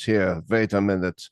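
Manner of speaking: light German accent on a retold quote; Morgenroth's German accent. Spiritual director stopping his student, lightly imitated German accent. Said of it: "that thick German accent".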